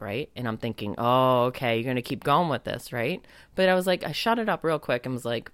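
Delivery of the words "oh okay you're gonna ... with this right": skeptical inner voice. Retold or imitated. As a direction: think it aloud with mild scepticism. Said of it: "the skeptic in me popped up".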